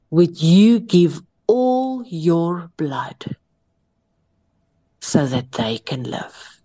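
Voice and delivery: slow breathy whisper, very drawn out; whispered question. Acted. The preacher whispers the question put to Jesus on the cross. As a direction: breathe the question as if holding back awe.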